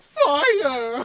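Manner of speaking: fabulous, loud, drawn-out belted cry. Retelling a game voice actor's line: imitating fabulous "Fire!". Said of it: "says fire in the most fabulous way".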